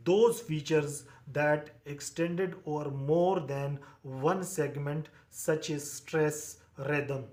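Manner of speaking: slow phrases with pauses between them; halting note dictation. Shown as a demonstration. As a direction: give the class time to write each phrase.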